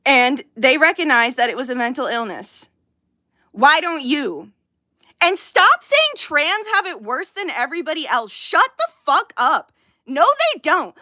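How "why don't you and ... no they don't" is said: real, frustrated ranting; angry yelling. Real, not acted. Livestreamer arguing with critics, angry yelling. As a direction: snap back, fed up and forceful. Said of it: "I am sorry I am yelling".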